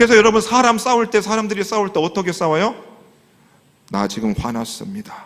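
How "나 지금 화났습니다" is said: calm, composed, soft and quiet. Showing that angry people never say it like this: quiet, calm delivery. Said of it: "이렇게 조용하게 이야기 안 하냐?".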